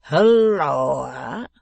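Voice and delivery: loud, long-held holler; startling bellow; sudden yell. A narrator's reading. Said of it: "by suddenly yelling out".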